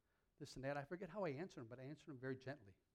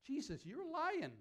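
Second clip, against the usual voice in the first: much higher, louder and slow, playful disbelief; mock outrage; 14 semitones higher, 8 dB louder, slower than usual. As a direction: tease Jesus like he's kidding you. Joking accusation of Jesus.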